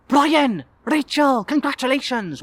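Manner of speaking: high, loud call across a room; hearty greeting. Acted. Late guest greeting bride and groom, loud and high. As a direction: hail them with big excitement.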